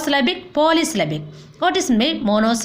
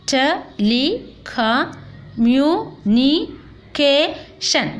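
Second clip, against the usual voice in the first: seven slow, separate syllables; very slow teacher's syllable count; much slower than usual. Shown as a demonstration. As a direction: break the long word up with clear gaps. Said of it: "This is a seven syllables".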